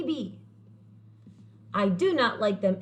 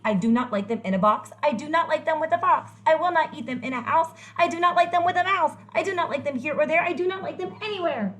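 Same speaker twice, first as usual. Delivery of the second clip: building frustration; 6 semitones higher, faster than usual. Acted. Grumpy character refusing Sam again, fast rising rant. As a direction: rattle it off, losing patience.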